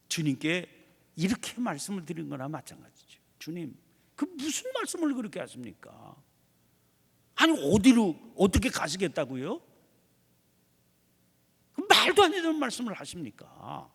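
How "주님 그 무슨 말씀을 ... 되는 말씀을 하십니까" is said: a touch of Peter's exasperated protest, partly raised; protesting retort. Retold or imitated. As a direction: push back at the Lord in mild disbelief. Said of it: "이런 식이지요".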